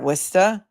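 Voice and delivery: Worcester said as WISS-tuh, no r's; local pronunciation. Shown as a demonstration. Host proving she's getting it, Worcester said as "Wista". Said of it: "I'm getting it, you guys".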